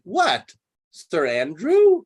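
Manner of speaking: a quick mock-surprised "What?"; mock surprise. Teacher acting Toby, feigned surprise at the news. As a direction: feign shock at the name. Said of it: "Sir Toby acts surprised".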